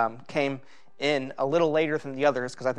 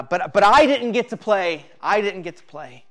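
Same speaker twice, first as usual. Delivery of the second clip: imitating an upset boy's protest, raised then easing; retold child's whine, understated; mild mock crying; 5 semitones higher, 5 dB louder than usual. Boy protesting to chess teacher as dad collects him, mild mock crying. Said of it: "he began to cry, saying".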